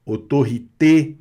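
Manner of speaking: "autorité" ending on a closed é; closed final É. Shown as a demonstration. Teacher points out the accent, "autorité" with closed é. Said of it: "tem o som fechado".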